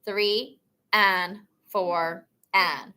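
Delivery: slow, deliberate clap-count; teacher leading a slow count; slow counting demo. Shown as a demonstration. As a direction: count each beat slowly and clearly.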